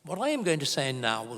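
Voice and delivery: mock German accent on a stern warning. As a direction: lightly put on a German professor's accent. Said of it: "I'll stop doing a German accent".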